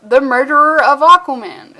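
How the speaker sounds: blurted out loud and proud; loud kid declaration. Retold or imitated. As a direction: announce it like a proud little villain. Kid villain answers proudly.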